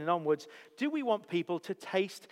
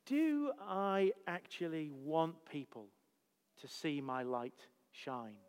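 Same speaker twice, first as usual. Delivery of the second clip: slow pondering question; slower than usual. Real, not acted. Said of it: "the question that comes before".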